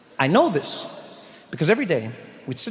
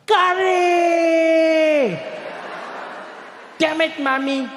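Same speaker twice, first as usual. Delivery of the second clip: full-lung high scream of a schoolboy; 11 semitones higher, much slower than usual. Retold or imitated. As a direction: shriek the first word long and high, then wail the rest. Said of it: "he'd scream at the top of his lungs".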